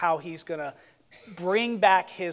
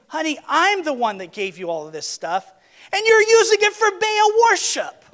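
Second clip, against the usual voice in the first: anguished husband; 10 semitones higher, 7 dB louder than usual. Acted. Heartbroken husband confronting wife.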